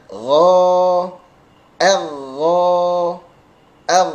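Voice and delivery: GHO long and heavy, ER with thin vowel; thick gh. Shown as a demonstration. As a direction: draw out "gho" slowly with a voiced back fricative. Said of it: "ghin yang tebal". (ghin tebal, a tipis)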